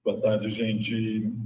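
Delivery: slow, echoing, delayed copy of the voice; cathedral echo. Real, not acted. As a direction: voice bouncing back from a big hall. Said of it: "tá com eco".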